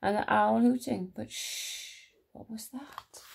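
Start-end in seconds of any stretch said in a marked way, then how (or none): 1.1-3.2 very soft, breath-only whisper; hushed whisper. A narrator's reading. Narrator pauses at a mysterious sound, suspenseful whisper. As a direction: whisper as if listening for a noise.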